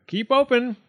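high, loud order; yelled. A narrator's reading. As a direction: yell it at a patient. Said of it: "yelled Doctor DeSoto".

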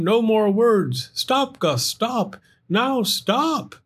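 high, insistent commands; firm, exasperated. Acted. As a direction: order him to stop. Sam ordering Gus to stop.

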